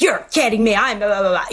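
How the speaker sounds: hammed-up petulant complaint; spoiled child. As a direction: whine it like a brat, half in jest. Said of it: "like a spoiled child".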